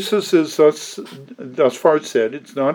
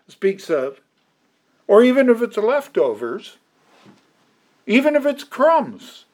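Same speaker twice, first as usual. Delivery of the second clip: feisty; 4 semitones higher than usual. Retold or imitated. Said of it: "This woman is one feisty woman".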